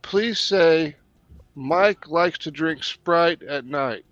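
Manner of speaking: slow, careful test phrase; slow test sentence. Shown as a demonstration. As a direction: spell out every word slowly. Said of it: "all you have to do is say".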